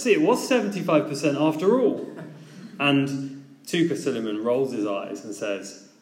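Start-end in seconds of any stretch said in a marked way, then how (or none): 0.0-2.1 quick, perky mock-triumphant jab; chirpy quip. Investor chirping a gloating quip at the flustered pitcher. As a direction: pipe up brightly with a told-you-so. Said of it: "chirps up and says".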